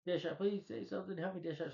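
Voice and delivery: high, softening cry for help; a hint of a doomed woman begging; desperate plea. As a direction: plead with him, fading out. Julie begging Deadshot before death.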